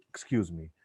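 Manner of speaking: ordinary talk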